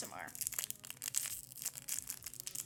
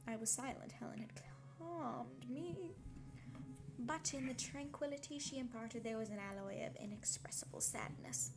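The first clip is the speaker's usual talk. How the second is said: story reading. Acted. Reading novel aloud on stream.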